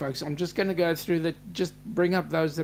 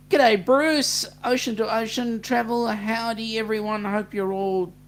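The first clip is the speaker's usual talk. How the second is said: cheery greeting; 5 semitones higher, 3 dB louder than usual. Real, not acted. Greeting new viewers in chat.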